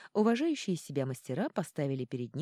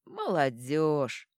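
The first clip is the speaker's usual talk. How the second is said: very slow, sighed word; sighing; 4 dB louder, much slower than usual. Acted. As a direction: sigh it with regret. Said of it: "вздохнул король Йорли". (со вздохом сожаления)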